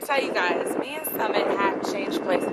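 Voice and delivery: high, hammed-up English accent; high-pitched mock English accent. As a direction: put on a lilting English accent. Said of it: "talk in an English accent".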